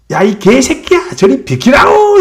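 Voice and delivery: high, loud angry shout; angry soldier yelling. Retold or imitated. Busy soldier yelling at the tiger to move. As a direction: bark him out of the way. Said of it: "이랬다고".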